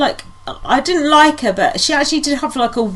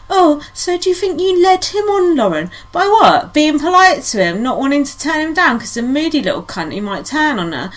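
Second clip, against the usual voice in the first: mocking presenter voice; 4 semitones higher than usual. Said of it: "Emma Willis".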